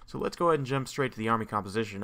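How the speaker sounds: losing his voice, a bit hoarse. Real, not acted. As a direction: talk through a worn-out hoarse voice. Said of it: "I'm losing my voice a little bit here".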